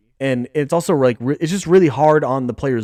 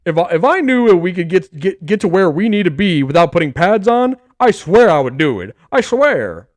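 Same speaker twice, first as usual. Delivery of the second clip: louder, roughened coach voice, half-done; bad Dan Campbell voice; 2 semitones higher, 4 dB louder than usual. Coach Dan Campbell swearing to his players, mock gruff voice. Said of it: "it's a bad Dan Campbell impression".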